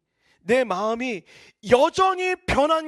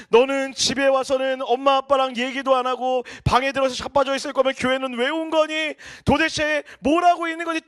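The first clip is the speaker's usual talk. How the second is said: mildly louder scolding father; a hint of an exasperated father; father's sigh and scolding; 4 dB louder than usual. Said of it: "한숨을 푹 쉬면서". (한숨 섞인 아버지의 가벼운 꾸중)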